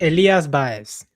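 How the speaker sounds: Baez said BA-ez, stress on the A, slowly; correct Spanish Baez. Shown as a demonstration. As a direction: Elias Baez with the stress on the first syllable of Baez. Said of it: "Yeah, on the A".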